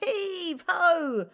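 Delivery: loud, laughing heave-ho; hearty shout. Acted. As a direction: giants straining and shouting together. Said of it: "they shouted".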